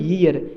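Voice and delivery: ईयर as "yee-yar", y glide first; corrected pronunciation. Shown as a demonstration. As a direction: start ईयर on a y, then long ee. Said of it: "इसको पढ़ते हैं हम ईयर". (ईयर, पहले "य" बोलकर सही उच्चारण)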